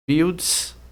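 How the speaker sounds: drawn-out "Fields" held as one syllable; syllable split. Shown as a demonstration. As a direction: stretch "Fields" out on its own. Separando sílabas em aula. (sílaba separada e alongada)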